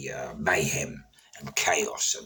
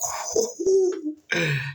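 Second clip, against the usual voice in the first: high laugh; 3 dB louder than usual. Real, not acted. Laughs about the block.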